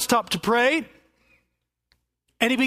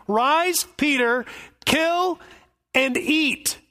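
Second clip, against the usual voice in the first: raised, commanding voice of God; 4 semitones higher, slower than usual. Acted. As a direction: call down from heaven with authority. Voice of God to Peter.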